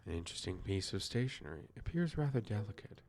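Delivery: lightly voiced detective reading; Poirot. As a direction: read it as a mildly put-on detective. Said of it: "I'm doing the best accent for Poirot".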